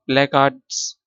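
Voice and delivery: slow "प्लेकार्ड्स" with no R sounded; silent R. Shown as a demonstration. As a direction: say "प्लेकार्ड्स" slowly, leaving out the R. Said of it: "आर silent है".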